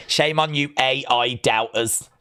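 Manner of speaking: wag a finger at them; mock scolding. Building scolding.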